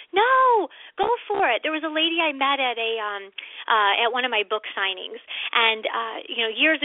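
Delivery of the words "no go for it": sharp high no, much louder; emphatic no. Real, not acted. Cohost cuts off the doubting voice with a sharp loud no. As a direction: jump in to stop the doubt.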